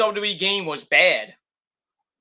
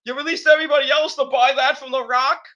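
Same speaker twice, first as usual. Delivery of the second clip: higher, lightly put-on scolding voice; mock Vince rant; 7 semitones higher than usual. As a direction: needle him about the wasted money. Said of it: "it's like".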